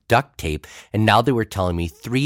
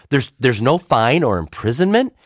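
higher and louder, caught off guard; surprised; 5 semitones higher, 4 dB louder than usual. Retold or imitated. Pastor asking sergeant about penalty, surprised. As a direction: ask it in disbelief. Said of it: "I was surprised".

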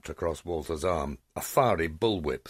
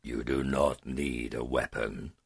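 slow, lower dragon voice; dragon growl; 4 semitones lower than usual. Acted. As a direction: rumble it out, unthreatened. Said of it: "the dragon growled".

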